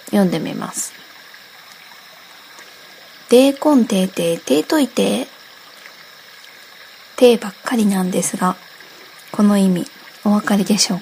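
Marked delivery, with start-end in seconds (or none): 3.3-5.3 Okayama dialect phrase. Shown as a demonstration. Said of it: "有名な岡山弁の一節を 読んでみます".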